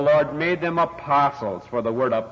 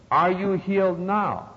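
faith healer's demand; 5 semitones higher, slower than usual. Retold or imitated. Healer's repeated demand acted.

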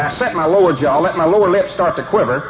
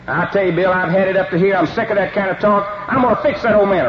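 mock outrage; 3 semitones higher than usual. Coach pretends the rancher insulted him, hammed-up outrage. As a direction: pile on the fake fury.

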